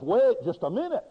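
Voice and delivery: a touch of a devil cutting in; devil's objection. Acted. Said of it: "the devil says".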